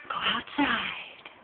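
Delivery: slow, gentle coaxing; coaxing a bird. Real, not acted. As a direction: ease the bird out slowly.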